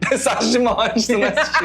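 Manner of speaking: 1 laughing mock omen. Real, not acted. Joking podcast plug laughing.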